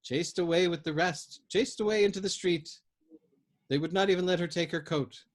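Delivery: put-on high wailing old woman; old woman wails about the girl chased out, rising grief. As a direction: let the lament swell as it goes. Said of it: "her low wail growing louder".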